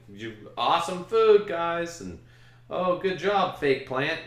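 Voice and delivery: high, overly bright goodbyes to everything in sight; mock cheery farewell. Wedding guest gushing goodbyes to catering and plants, high and bright. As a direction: gush thanks at the food and a fake plant.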